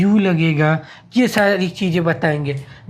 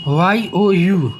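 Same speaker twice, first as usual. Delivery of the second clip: spelled slowly; much slower than usual. Shown as a demonstration. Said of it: "हम English में लिखते हैं यू".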